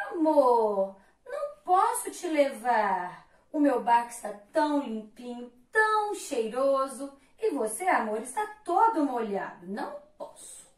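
a lightly voiced prissy snob; vain refusal. Vanity refuses wet Love, fast loud fussy snub. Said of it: "o barco da vaidade".

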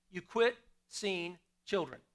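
slow, deliberate, weight on "quit"; a preacher repeating for the congregation to catch it. Shown as a demonstration. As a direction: lean into "quit" and let each word land slowly. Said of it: "Can I say that again?".

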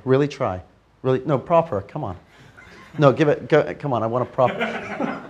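loud coaxing push; urging loudly. Real, not acted.

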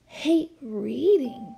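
slow, astonished disbelief; can't believe what she just heard; gasped question. Acted. Lily hearing her new friend hates reading, astonished slow question. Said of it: "gasped Lily".

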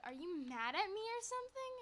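dramatic friend. Retold or imitated. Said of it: "She's very dramatic".

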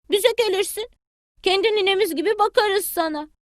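high, eager little chick; a small child calling at granny's door. Acted. Bili Bili greets granny hen at her door, high child voice.

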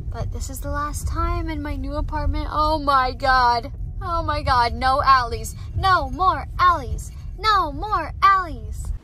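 tearful, breaking voice; real tears over leaving; sobbing. Real, not acted. Crying to her viewers about the old apartment. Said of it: "but I am just sobbing".

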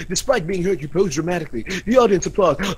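hurried read of a repeated line; quick, perfunctory recital; rushed. Acted. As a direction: rattle it off without lingering. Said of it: "I'm rushing it".

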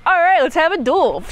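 a knight repeating it, raring to go; eager challenger. Retold or imitated. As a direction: throw it back, itching for a fight. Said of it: "this guy's like".

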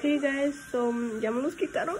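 muffled behind fingers; speaking through covered lips; hand over mouth. Real, not acted. Seen 2: Hand covers mouth throughout labelled words; also before braces reveal.

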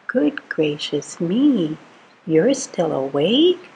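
slow, hammed-up gasp of surprise; playful astonishment; mock surprise. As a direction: pretend shock that he's still up. Mock surprise at awake snake.

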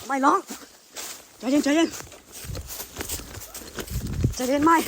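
real terror, voice shooting up in panic; scared shout at a face in the woods; panicked fear. Real, not acted. Seeing a face in the forest.

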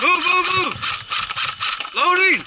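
shouted commands. Real, not acted. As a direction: yell it across the field. Calling out to squad in firefight.

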